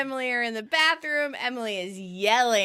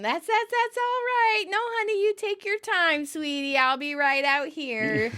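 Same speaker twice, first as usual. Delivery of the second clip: high, overly sweet reassurance; nervous husband soothing his wife, pitched up; placating husband; 5 semitones higher than usual. Retold or imitated. Ross calming his angry bride, high and falsely sweet.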